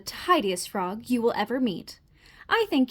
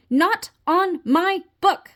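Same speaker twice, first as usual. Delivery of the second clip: horrified protest; 4 semitones higher, 4 dB louder, slower than usual. Acted. Finn horrified at fly guts.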